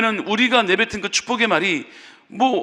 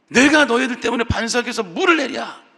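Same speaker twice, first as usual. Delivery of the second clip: angry Moses; 3 semitones higher than usual. Retold or imitated. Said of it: "모세는 화를 냈죠".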